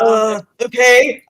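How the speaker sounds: put-on slow, sour Russian old man; Russian accent. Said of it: "I forgot what voice I gave him".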